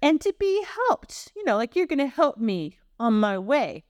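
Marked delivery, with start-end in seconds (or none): 0.0-1.3 high-pitched Italian-American read; hammed-up Italian-American accent. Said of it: "this is more American Italian". 1.8-3.8 lightly put-on Italian-American accent; a touch of American Italian. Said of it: "this is more American Italian".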